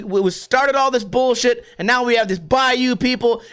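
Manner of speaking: ordinary talk, nothing marked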